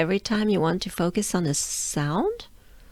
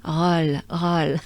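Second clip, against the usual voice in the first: French accent; 2 semitones lower than usual. Shown as a demonstration. Teacher says rock and roll roll in French accent. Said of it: "rock and roll with a French accent".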